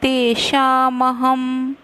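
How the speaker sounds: तेषामहं ending in म, said slowly; anusvara as m. Shown as a demonstration. Teacher showing students the m in तेषामहं. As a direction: sound the dot on तेषामहं as m. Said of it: "ह dot का उच्चारण म करते हैं".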